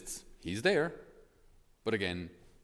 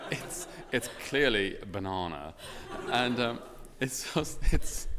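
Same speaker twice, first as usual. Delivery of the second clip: laughing; 2 semitones higher, 4 dB louder, slower than usual. Real, not acted. Laughing at own imitation of kids.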